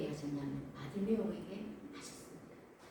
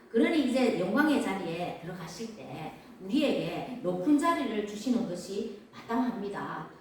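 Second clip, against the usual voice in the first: assertive, louder, insistent claim; confident demand; 5 dB louder than usual. Acted. Disciples claiming seats from Jesus, confident demand. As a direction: press the demand boldly, with stressed peaks. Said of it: "야고보와 요한은 당당하게 요구합니다".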